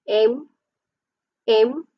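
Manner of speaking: "important" as IM, POR, TANT with long gaps; syllable by syllable. Shown as a demonstration. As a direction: sound out "important" one beat at a time. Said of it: "Put a hand".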